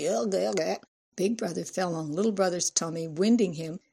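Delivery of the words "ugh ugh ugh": hammed-up choking groans; boy faking a heart attack; play-acted strangled gurgles; mock dying cry. A narrator's reading.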